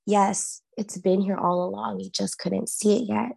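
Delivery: steady, even voice of revelation; calm inner voice. Retold or imitated. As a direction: say it like a clear voice inside your head. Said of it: "this voice, so clear".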